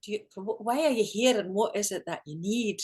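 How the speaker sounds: lightly imitated Scottish accent; retold in a Scotsman's accent. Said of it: "got this Scottish accent, they spoke like this".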